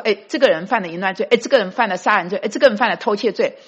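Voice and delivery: the devil accusing the sinner before the heavenly court, quick and sneering. Acted. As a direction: rattle off the charges like a gleeful prosecutor. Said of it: "魔鬼撒旦再控告说".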